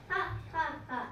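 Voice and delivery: read-out "ha, ha, ha"; deliberate storybook laugh; mock laugh. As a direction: pretend to laugh in spaced-out beats. Sheru gloats over his trick.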